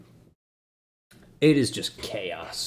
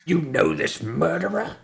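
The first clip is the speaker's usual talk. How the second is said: higher-pitched guard demanding an answer; accusing guard; 7 semitones higher than usual. Acted. Guard confronts a bystander about the murderer, accusing. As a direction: interrogate as an indignant guard.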